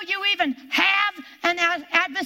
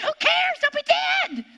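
blunt retort; 10 semitones higher than usual. Retold or imitated. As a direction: snap back that it doesn't matter. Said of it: "I know it sounded harsh".

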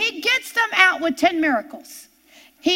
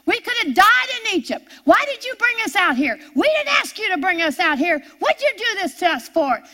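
mock screaming; 4 semitones higher than usual. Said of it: "They are screaming at Moses".

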